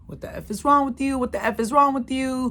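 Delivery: griping accusation, lightly acted; mock ex-husband going off. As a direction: mildly imitate an ex going off. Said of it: "my ex-husband calls me going off".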